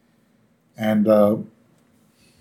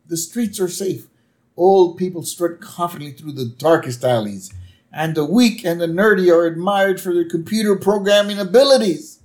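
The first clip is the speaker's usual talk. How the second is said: Homer rant; 4 semitones higher than usual. Retold or imitated. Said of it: "That's such a good rant".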